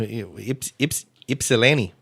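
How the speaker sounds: Ypsilanti in a Michigan accent. Shown as a demonstration. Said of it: "say it with the Michigan accent".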